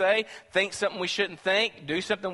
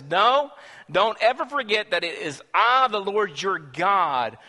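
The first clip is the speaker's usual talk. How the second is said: stern divine warning; 4 semitones higher, 6 dB louder, slower than usual. Acted. God warning the Hebrews.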